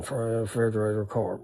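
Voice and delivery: quietly repeating words to himself under his breath; muttered under breath. Retold or imitated. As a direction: say the words softly under your breath to remember them. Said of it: "under my breath".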